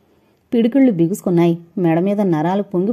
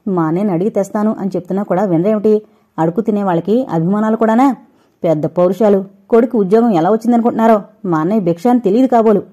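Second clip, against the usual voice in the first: fast, fuming complaint under mild anger; grumbling and fuming; faster than usual. Acted. Mother-in-law grumbling about her son's job, fuming. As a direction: grumble it out, quick and resentful. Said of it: "మూలుక్కుంటూ రుసరుసలాడుతూ".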